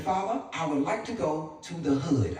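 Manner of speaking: politely petition dad, very proper; Hassan. Acted. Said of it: "He said".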